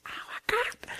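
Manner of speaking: imitating a breathless, very high squeal; Bethany suddenly getting an idea, mock squealing. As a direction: squeal it like an overexcited friend. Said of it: "she gets a laughing and squealing".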